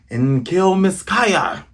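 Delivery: slow, drawn-out sinister command; menacing order. Acted. Villain plotting the attack.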